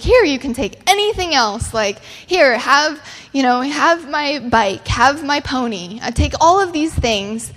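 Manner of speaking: lightly acted little girl begging; desperate bargaining. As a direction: offer everything up eagerly, like an anxious kid. Daughter bargains to keep her pearls.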